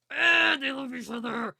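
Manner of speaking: high, loud fangirl gush; gushing squeal. Real, not acted. Fan gushing to viewers about her favorite scene, loud and high. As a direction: gush over them, overwhelmed with love.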